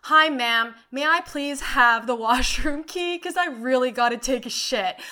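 imitating herself scolding the customer; retold telling-off. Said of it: "And I finally was like".

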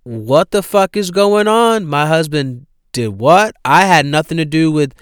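loud, high shocked yell; imitating the wife's stunned outcry; shocked outburst. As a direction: blurt it out in disbelief. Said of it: "she's like".

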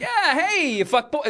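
high, laughing taunt from a jeering fan; high mock heckler. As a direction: toss the insult up high and mocking.

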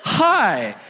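high, nervous greeting; acted terrified squeak. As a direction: squeak it out in mock terror. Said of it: "I'm, like, terrified".

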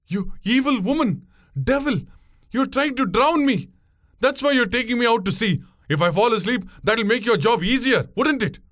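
high-pitched, outraged panic; frantic accusation. A narrator's reading. Passenger accusing boatwoman of drowning him, frantic.

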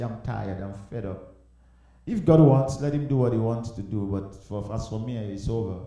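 soft, falling, given-up voice; quietly throwing in the towel; weary resignation. Acted. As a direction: let it sink away, fed up. Voices someone giving up.

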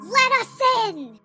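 commanding. Acted. Summoning powers, demanding entry.

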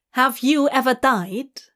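pointed comeback question; Hob retorting. Acted. Immortal human answering a demon's taunt, retorting. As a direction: throw the challenge straight back. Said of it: "Hob shoots back".

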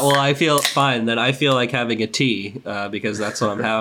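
congested, blocked nose voice. Real, not acted. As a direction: talk through a stuffy nose. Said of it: "I'm a little bit congested".

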